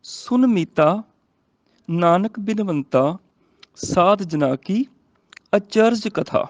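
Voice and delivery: slow, measured verse reading; scripture recitation. Shown as a demonstration. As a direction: recite slowly, phrase by phrase. (ਹੌਲੀ, ਠਹਿਰਾਅ ਨਾਲ ਗੁਰਬਾਣੀ ਪਾਠ)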